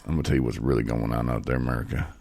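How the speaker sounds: hammed-up address to the nation; dramatic announcer. Mock grand announcement to America.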